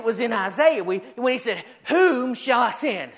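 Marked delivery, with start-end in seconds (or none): 1.9-3.1 drawn-out, ringing summons; preacher voicing a divine call; God's call. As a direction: put the question out as a solemn call. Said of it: "Sometimes he says it like this".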